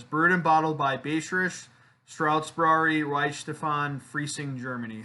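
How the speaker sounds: amateur attempt at a German accent; bad German accent. Shown as a demonstration. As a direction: read the German names in a clumsy German accent. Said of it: "I have a terrible German accent".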